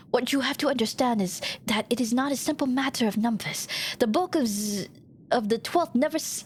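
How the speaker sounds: measured dramatic recounting of a defeat; solemn war veteran character. Acted. Rebel recounting how the enemy won the war, solemn character voice. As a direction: play a soldier remembering the battle.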